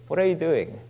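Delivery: quiet, fading into a whisper; God's gentle voice, hushed. Acted. God encouraging the discouraged preacher, in a soft whisper. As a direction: breathe the last words as a whisper. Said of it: "God was looking at me and saying".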